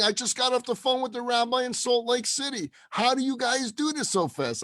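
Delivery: high-pitched, disbelieving astonishment; freaking out. Retold or imitated. Stunned woman asks the rabbi how it happened, freaking out. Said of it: "she's freaking out".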